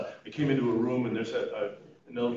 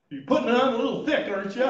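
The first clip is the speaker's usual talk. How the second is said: higher, louder, laughing jab; teasing through laughter; 9 semitones higher, 5 dB louder, faster than usual. Retold or imitated. Retired-nurse mother laughingly teasing her son for laying it on thick. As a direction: poke fun, amused.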